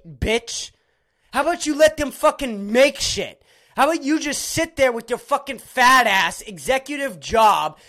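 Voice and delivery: loud, indignant tirade; real exasperated rant; angry berating. Real, not acted. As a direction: lay into them, heated and forceful. Berating the network executives.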